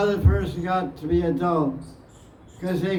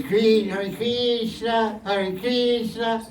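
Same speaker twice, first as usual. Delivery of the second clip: slow Italian "Hare Krishna", the R softened to kris-na; Italian accent; 3 semitones higher, slower than usual. Retold or imitated. Teacher imitating Italians chanting, light Italian accent. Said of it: "They say".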